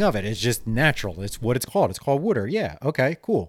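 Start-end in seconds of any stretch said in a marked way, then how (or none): 1.9-2.5 "water" said as "wooder"; Delco-style "water", wood plus -er; local pronunciation. Shown as a demonstration. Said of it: "it's the word that is said".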